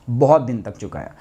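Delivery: a low, regretful repeat; low rueful echo. Real, not acted. Repeats the phrase low for weight.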